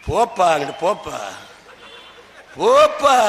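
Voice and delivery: low, scornful wave-off; dismissive brush-off. Pretend. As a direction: shoo them away with contempt. Dismissing the rivals. (ஏளனமாக விரட்டும் குரல்)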